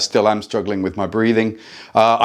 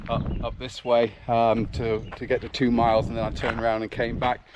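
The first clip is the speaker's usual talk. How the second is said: out of breath mid-run; puffing and panting while running; while jogging; 4 dB quieter than usual. Real, not acted. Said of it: "as you can hear, I am puffing and panting a bit".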